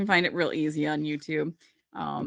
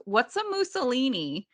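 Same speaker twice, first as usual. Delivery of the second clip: mock innocent question, pitched higher; innocently puzzled; 5 semitones higher than usual. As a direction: imitate a sweetly clueless question. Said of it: "very innocently".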